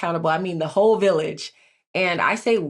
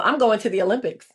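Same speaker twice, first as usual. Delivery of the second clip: retelling a bold boast, pitched higher; bold, higher-voiced proclamation breaking into a laugh; bold declaration; 5 semitones higher, faster than usual. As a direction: announce it to everyone, high-pitched and a little amused. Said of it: "I was very bold".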